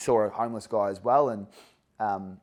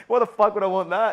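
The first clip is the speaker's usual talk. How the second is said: 1 mock rude bloke; 9 semitones higher, 7 dB louder than usual. Mimics the bloke's rude reaction.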